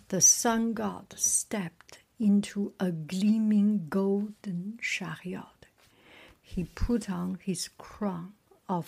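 measured storybook reading; story narration. A narrator's reading. Reader resuming the sun god's tale, measured story narration. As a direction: read on in short, paused phrases.

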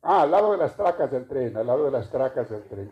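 imitating a Spanglish speaker giving directions; mock Spanglish. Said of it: "por corregir mi español". (imitando con sorna a un hablante de spanglish)

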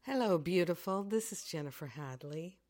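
slightly hoarse, croaky morning voice. Real, not acted. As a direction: talk through a croaky throat. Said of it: "with a bit of a croaky voice".

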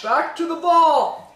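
high, slowed announcer echo; announcer call. Acted. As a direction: boom it out like a jingle. Echoing the segment call.

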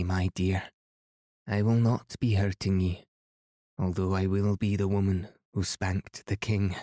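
put-on proud old Highland Scotswoman, a light lilt; lightly voiced Highland woman, dignified and grand; Highland accent. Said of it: "full of delightful Highland accent".

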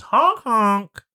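high double honk; goose honks. Acted. GM voices goose gesturing to chairs.

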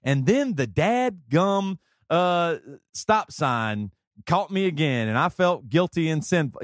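slow, drawn-out reading in Joey's voice; Joey's way of talking. Shown as a demonstration. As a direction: stretch it out the way Joey would tell it. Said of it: "capture the way Joey talks".

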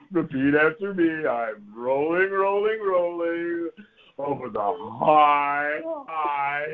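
slow, elongated teacher recitation; poem recitation. Retold or imitated. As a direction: stretch each word as if savouring the verse. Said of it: "it's a famous line from a famous poem".

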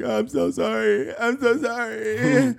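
high, slow mock sobbing; drawn-out, whiny put-on weeping; imitated crying apology. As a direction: wail the apology in fake tears. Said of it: "And they were crying".

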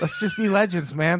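mock bro hype shout. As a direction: yell it like a bro rallying. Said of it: "slogan repeated louder".

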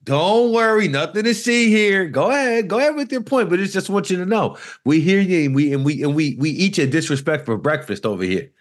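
playful fake New York accent; hammed-up Noo Yawk swagger. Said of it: "Look at you with this fake New York accent".

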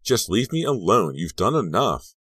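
high, loud, exasperated outburst; angry yell. A narrator's reading. Girl running to class away from the boy, angry yell. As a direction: yell it as a parting shot. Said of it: "she yelled".

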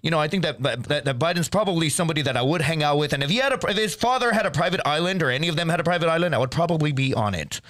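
lightly put-on interviewee with a slight speech impediment; mildly impeded speech, as an alter ego; Geraldo Rivera. Answering a mock interview on the Twitter files, lightly put-on voice. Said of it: "kinda gave you a speech impediment".

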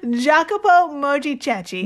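over-enunciate Jacopo Mojicetti; Italian name, carefully. Real, not acted. Co-host nails the professor's name, careful Italian pronunciation. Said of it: "Nailed it".

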